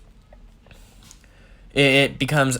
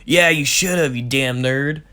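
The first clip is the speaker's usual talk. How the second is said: playful teasing; 3 semitones higher, 4 dB louder than usual. Acted. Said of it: "in the more playful tone".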